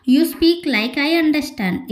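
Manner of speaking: slow, carefully spaced English; deliberate teaching read; slow model sentence. Shown as a demonstration. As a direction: spell it out slowly for learners. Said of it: "In English".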